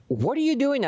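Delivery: high-pitched imitation of a screaming woman; mock scream. Lady at her door challenging the student, mock scream. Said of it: "she screamed again".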